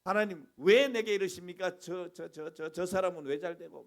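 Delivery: self-righteous believer grumbling loudly; indignant complaint. Retold or imitated. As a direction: protest your own goodness to God. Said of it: "막 이런 적이 있어요".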